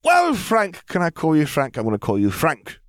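put-on a cheeky girl naming her new hire; voicing Lily as she renames him Frank; Lily's high girl voice. A narrator's reading. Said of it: "she said".

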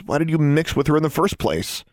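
heated accusation; angry question. Acted. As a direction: demand an answer in fury. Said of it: "Alexandra asked angrily".

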